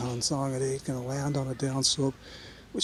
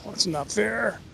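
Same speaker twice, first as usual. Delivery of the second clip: laughing; 8 semitones higher, slower than usual. Real, not acted. Laughing at a lucky shot.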